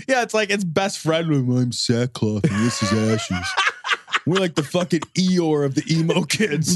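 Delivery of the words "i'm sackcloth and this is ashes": slow, low, mopey goth voice; lightly voiced sulky goth; mopey goth kid. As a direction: drone it out like a sad goth kid. Mock goth kid quote.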